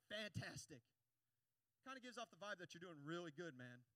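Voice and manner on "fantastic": loud, awkward mock cheer; defensive reply. Shown as a demonstration. Preacher demonstrating closed-off small talk, defensive. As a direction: insist all is well, guarded. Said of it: "they're, they're defensive".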